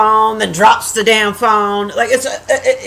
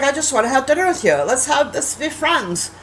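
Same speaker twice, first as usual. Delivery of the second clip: creep's pleading; 3 semitones higher, 3 dB quieter than usual. Retold or imitated. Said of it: "He's like".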